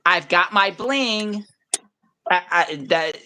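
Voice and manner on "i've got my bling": slow, drawn-out mock delivery; mock newscaster showing off; imitating corny newscaster. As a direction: stretch it out like a cheesy TV lady. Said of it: "and then she goes".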